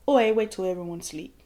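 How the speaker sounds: fading to a hush as you say it; a hint of a cold killer's murmur; cold calculated killer. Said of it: "like a ninja, like a cold, calculated killer".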